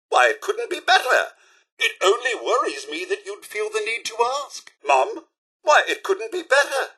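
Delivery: high, eager, delighted reply; cheerful reassurance. Acted. Butler answering Mum or sir, high and cheerful. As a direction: insist politely that all is splendid.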